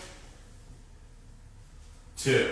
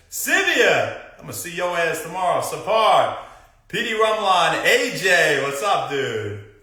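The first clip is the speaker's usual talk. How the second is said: excited shoutouts; 4 semitones higher, 4 dB louder than usual. Real, not acted. More hyped viewer shoutouts.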